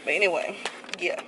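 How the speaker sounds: muffled behind cloth mask; speaking through covered mouth; through a face mask. Real, not acted. Seen 5: Black mask covers mouth and nose throughout labelled speech.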